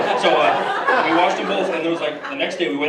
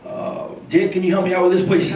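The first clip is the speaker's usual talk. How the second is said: higher Bush asking for help; George Bush impression; 4 semitones higher than usual. Bush asks Dick for help, lightly higher. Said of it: "George Bush and Johnny Carson".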